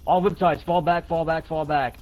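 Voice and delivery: shouted order. Acted. Ordering retreat under fire.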